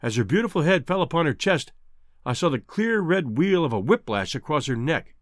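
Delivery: plain reading voice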